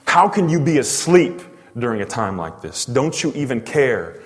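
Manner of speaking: pointed, accusing question. Acted. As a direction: demand an answer, reproachfully. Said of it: "definitely some accusation here".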